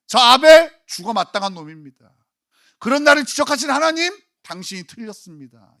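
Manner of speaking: preacher voicing Cain accusing God; Cain's angry protest. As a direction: argue back at God as the furious Cain. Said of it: "가인은 하나님을 향하여 분노할 수 있는 거예요".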